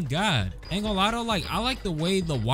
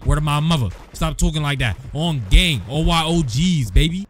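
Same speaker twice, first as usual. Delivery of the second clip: mock gang talk; 7 dB louder than usual. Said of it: "it was all a joke".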